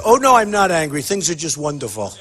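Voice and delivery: lightly put-on soothing politician; a hint of phony political politeness; mock politician. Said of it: "if I was a politician".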